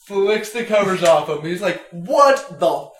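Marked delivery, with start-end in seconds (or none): 1.9-2.9 mock furious guy half-laughing; imitated yell, higher at the end; retold angry yell. Guy yelling at bleeding girl.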